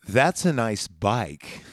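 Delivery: slow, low deadpan line; Terminator deadpan. Retold or imitated. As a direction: drawl it slowly like a robot. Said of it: "He goes".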